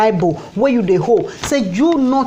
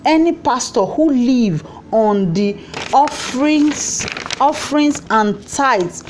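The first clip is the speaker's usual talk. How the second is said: slow, deliberate read-out of a statement; reading aloud; slower than usual. Real, not acted. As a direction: read it out slowly, phrase by phrase.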